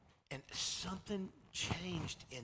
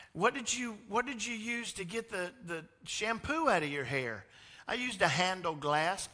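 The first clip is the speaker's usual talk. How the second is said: high, loud imitated exchange; mom questioning; 7 semitones higher, 8 dB louder than usual. Mom questioning her son. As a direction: mom probing and boy answering.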